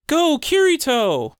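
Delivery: high, drawn-out fangirl cheer. Retold or imitated. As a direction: squeal it like an adoring fan. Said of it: "all the girls going".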